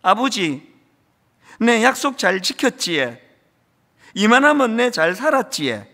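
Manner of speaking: lightly voiced Gyeongsang dialect, mostly recited; quoting the old son's Gyeongsang line with a touch of tearfulness; a hint of a tearful old man in Gyeongsang dialect. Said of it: "경상도 사투리죠".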